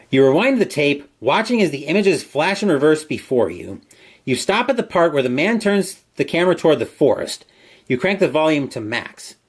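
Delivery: measured storyteller read; story narration. A narrator's reading. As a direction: narrate the eerie scene line by line. Reads gamebook story aloud.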